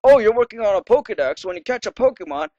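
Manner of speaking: lightly voiced game character; reading NPC lines. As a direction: read it as a chatty NPC. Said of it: "This guy says".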